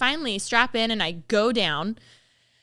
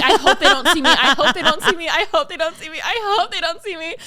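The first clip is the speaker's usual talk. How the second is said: high, laughing chant of dread; retold panic, loud at first then easing; mock desperate pleading; 6 semitones higher, 6 dB louder than usual. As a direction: plead it over and over, half laughing. Retold repeated pleading, friends in view.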